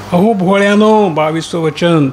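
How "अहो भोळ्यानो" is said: calling out. Acted. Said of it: "नगरात आपली ते वचने बोलते".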